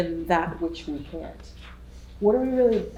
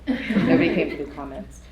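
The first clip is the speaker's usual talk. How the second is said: a laughing joke to the room. Real, not acted. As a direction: tease them with a laugh. Joking with the audience.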